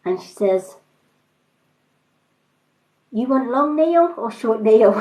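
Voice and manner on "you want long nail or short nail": mock Chinese accent, breaking into a laugh; laughing Chinese accent impression. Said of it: "lovely little Chinese woman".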